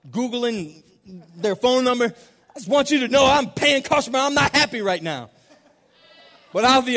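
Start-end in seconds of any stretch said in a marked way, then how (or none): 2.1-5.3 high, loud mock-irate customer; indignant complaint. Paying customer phones the store to complain, indignant. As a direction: voice an outraged caller, easing slightly at the end.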